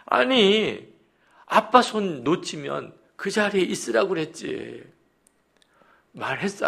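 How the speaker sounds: high, exasperated parental telling-off; scolding shout. Retold or imitated. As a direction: act out a dad telling off a child who wandered. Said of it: "소리소리를 질렀대".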